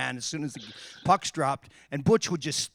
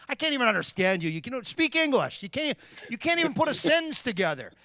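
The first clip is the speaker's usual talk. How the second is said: mock yell; 9 semitones higher than usual. Retold yelling at Frankie on bench.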